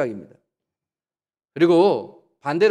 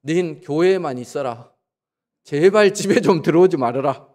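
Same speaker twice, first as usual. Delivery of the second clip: exasperated husband; 6 dB louder than usual. Retold or imitated. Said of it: "안 믿는 남편이 아내 보고 그런다잖아요".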